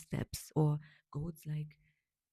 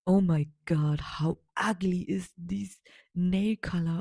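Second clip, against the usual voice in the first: mock disgust; 4 dB louder than usual. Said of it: "they be like".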